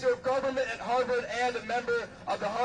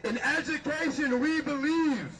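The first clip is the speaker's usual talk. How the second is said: podium speech. Real, not acted. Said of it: "Repeat after me".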